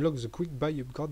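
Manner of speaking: English product name in a French accent. Real, not acted. Gamer reads a button's English name to viewers, French-accented English. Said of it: "j'ai un super accent anglais".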